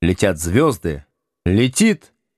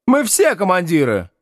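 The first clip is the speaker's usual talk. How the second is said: proud declaration, higher pitch, stress on все; 9 semitones higher than usual. A narrator's reading. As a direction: announce it proudly, leaning on все. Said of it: "гордо заявляет Чебыкин".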